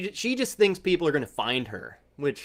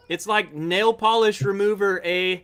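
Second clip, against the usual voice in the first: put-on Canadian accent with a tagged-on "eh"; hammed-up Canadian, slightly raised; 2 semitones higher than usual. Whiskey taster redoing the verdict in a mock Canadian accent. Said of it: "supposed to be talking in Canadian accent".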